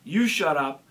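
a mild mock yell of an angry heckler; retold heckler yell. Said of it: "The guy says".

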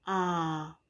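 "ah." with an open mouth, a held short vowel; short o sound. Shown as a demonstration. Teacher showing mouth shape to children, open vowel. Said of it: "watch my mouth".

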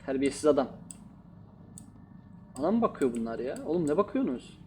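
loud, half-joking tough-guy scolding; mock angry yelling. Gamer yells at staring game mannequins, mock angry.

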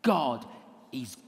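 slow, simple mock sermon; lightly mock a beginner's sermon; slow and simple like a first talk; naive preacher. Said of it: "my talk week one was".

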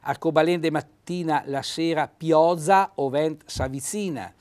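reciting a dialect proverb; Trentino dialect. Shown as a demonstration. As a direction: read the rhyme in Trentino dialect. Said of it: "Vedete qui".

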